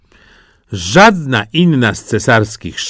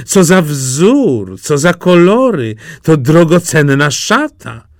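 admiring exclamation; 7 semitones higher, 4 dB louder than usual. Acted. Courtiers marvel at the robe, high and loud. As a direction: marvel loudly at the pattern.

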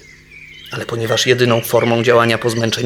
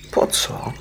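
puzzled; 4 dB quieter than usual. Acted. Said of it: "zapytał zdziwiony bóbr".

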